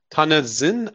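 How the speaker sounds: Tanansin with a questioning rise; unsure pronunciation. Real, not acted. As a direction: try out the name Tanansin as a doubtful question. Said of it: "I have no idea how to pronounce it".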